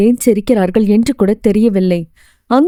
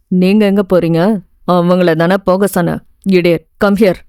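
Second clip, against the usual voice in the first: irritated lecturer; 4 semitones lower than usual. Acted. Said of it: "என்று கடுப்படித்தான்".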